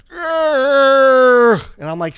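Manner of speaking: long, loud, high drawn-out groan; mimicked groan. Comic imitating of his penis, long high groan. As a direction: hold one high, loud whine.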